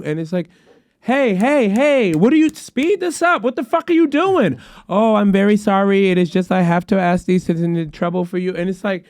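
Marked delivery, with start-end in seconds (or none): 1.0-4.6 high-pitched, exasperated interruption; exasperated caller. Retold or imitated. Retold fed-up caller cutting agent off. 4.9-8.5 put-on apologetic agent with an Indian accent; imitated Indian accent. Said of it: "Pardon the accent".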